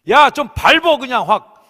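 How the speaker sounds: loud, high, slow exasperated yell; angry scolding. Acted. Father teaching his child to ride, angrily exasperated. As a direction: shout it like a fed-up parent. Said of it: "화가 나면 어때요?".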